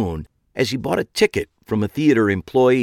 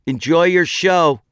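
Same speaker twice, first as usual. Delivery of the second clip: echoing through speaker; 8 semitones higher, 5 dB louder than usual. A narrator's reading. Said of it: "her final rote words echoing out of the small speaker".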